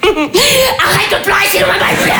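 laughing near tears. Acted. Exhausted mother begging her crying baby, laughing near tears. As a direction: beg the baby while losing it.

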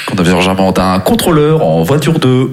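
imitated train tannoy announcement; lightly put-on announcer voice; odd PA announcement. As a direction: mimic an onboard microphone call. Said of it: "d'autres annonces micro".

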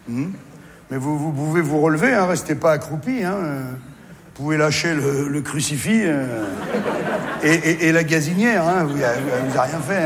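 soothing doctor voice fading to wary hush; nervous doctor. Retold or imitated. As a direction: reassure the panicked mother while uneasy.

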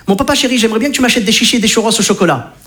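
lightly voiced sweet-talking son; child's sweet request. Son sweet-talking his dad at the funfair, lightly voiced. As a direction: coax dad like a kid asking for a treat. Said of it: "il me le demande en allitération".

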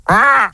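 cri d'oiseau raté; cri de mouette imité. Pretend. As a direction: imiter maladroitement une mouette. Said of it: "La mouette". (faux cri de mouette)

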